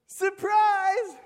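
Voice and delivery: high, loud mocking shout, stretching jelly slowly. Older brother mocking the little one, high loud slow shout. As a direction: bellow the letdown like a cruel big brother. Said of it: "He says".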